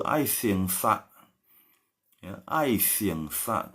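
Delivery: ai siang sa sangat pelan, ai naik; slow Taiwanese tones. Shown as a demonstration. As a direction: ucapkan ai siang sa perlahan, nada naik di ai. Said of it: "kita pakai siang ya". (ai siang sa pelan dengan nada naik)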